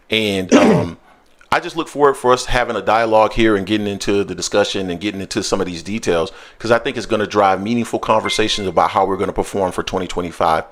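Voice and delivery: mild corporate meeting voice; corporate presenter voice. Shown as a demonstration. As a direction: open an earnings call politely. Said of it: "That's how you're gonna hear me talking".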